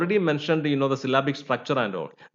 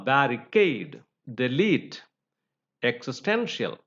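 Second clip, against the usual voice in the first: "barricade, delete, existential" with weight on -CADE, -LETE, -TEN-; stress on suffix; 3 semitones lower than usual. Shown as a demonstration. Teacher finishing examples of the rule, stress on the ending. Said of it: "stressed on the suffix".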